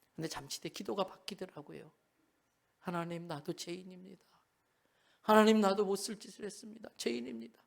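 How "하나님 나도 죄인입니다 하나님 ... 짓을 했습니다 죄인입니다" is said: put-on tearful crying, much quieter. Retelling a child's prayer to god, acting out a crying prayer. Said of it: "막 우는 거예요".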